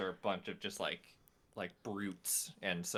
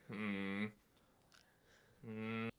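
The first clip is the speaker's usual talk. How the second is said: pondering hum; 9 dB quieter than usual. Acted. Esther compares the wanted poster, quiet pondering hum. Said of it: "I take a moment going".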